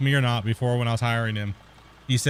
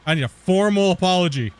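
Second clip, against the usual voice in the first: louder, hammed-up imitation of the officer; mocking demand; 4 semitones higher, 5 dB louder than usual. Mocking the border officer's demand for an apology, loud. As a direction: throw her demand back in scorn.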